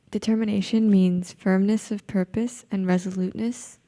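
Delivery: projected up for the room. Real, not acted. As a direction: raise your voice so all can hear. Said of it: "Can you speak louder, please?".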